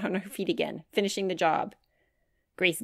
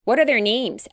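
put-on eager child; 5 semitones higher, 6 dB louder than usual. A narrator's reading. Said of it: "asked Grace".

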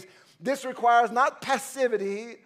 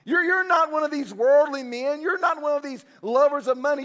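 higher, earnest voice of Paul gripping Timothy; Paul urging Timothy; 4 semitones higher, 3 dB louder than usual. Acted. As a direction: plead with him like an old mentor. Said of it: "and say".

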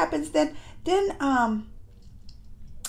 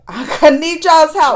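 louder, laughing ask for help; laughing plea; 4 semitones higher, 7 dB louder than usual. Real, not acted. Vlogger laughing as she begs viewers for help.

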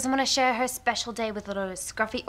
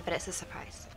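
tag; 6 semitones lower, 11 dB quieter than usual. Acted. Hushed aside about the surprise.

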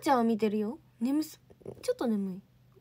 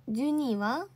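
usual speaking voice

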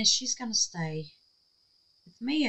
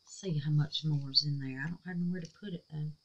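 whisper; 4 semitones lower, 9 dB quieter, faster than usual. Real, not acted. Muttering to herself while pouring.

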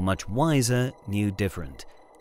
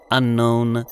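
robot voice; 5 dB louder than usual. Acted. Robot Zeta answers.

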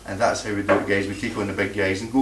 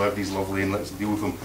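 mock passive; 3 semitones lower, 5 dB quieter, much faster than usual. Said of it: "Darrell's very sort of passive".

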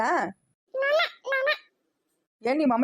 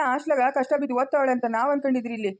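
angry scolding; 2 semitones higher than usual. Acted. Father scolding daughter Ramya.

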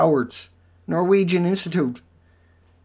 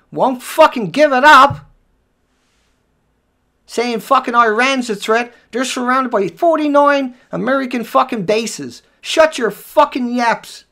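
angry rant; 4 semitones higher, 5 dB louder than usual. Real, not acted. Vlogger rants at the press over Iran, furious. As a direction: bite down on each word.

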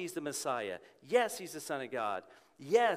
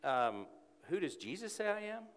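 imagined listener; 10 semitones higher than usual. Retold or imitated. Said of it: "You say".

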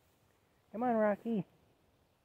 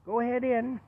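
high, louder push to go in; high urging call; 9 semitones higher, 6 dB louder than usual. Real, not acted. Owner herding dog into the camper, high urging call. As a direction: urge him inside with a raised call.

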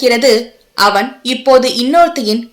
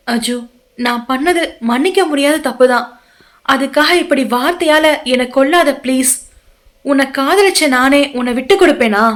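pleading woman. Acted. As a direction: plead gently with him to listen. Saindhavi begs forgiveness.

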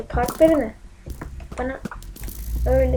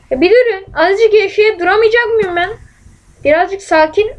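frustrated complaint; 5 semitones higher, 4 dB louder than usual. Real, not acted. Complaining to attackers in game.

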